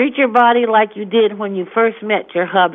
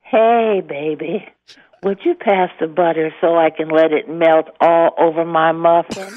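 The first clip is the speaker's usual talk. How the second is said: playful, lowered seductive purr; mock-sultry, sliding lower; sexy voice; 5 semitones lower than usual. Shown as a demonstration. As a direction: demonstrate a flirty dinner-table come-on. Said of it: "Use your sexy voice".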